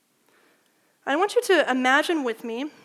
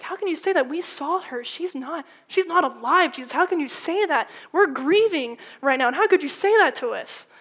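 louder, higher, exasperated pleading; frustrated protest; 3 semitones higher, 5 dB louder than usual. Retold or imitated. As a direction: push back at him in disbelief. Frustrated mourners quoted.

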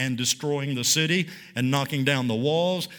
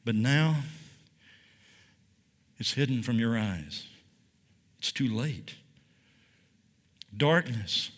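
much softer and lower, letting it drop; a quiet, hopeless "it's too late"; resigned; 6 semitones lower, 6 dB quieter than usual. Acted. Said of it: "shrugs his shoulders and says".

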